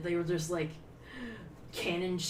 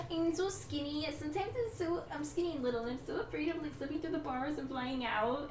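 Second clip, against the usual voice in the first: high-pitched Valley Girl imitation; Valley Girl accent; 9 semitones higher, 3 dB quieter than usual. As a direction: whine it like a mock Valley Girl. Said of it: "have you seen my Valley Girl accent".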